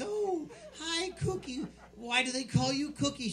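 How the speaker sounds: high, sing-song teacher voice; put-on sweet schoolteacher; teacher greeting child.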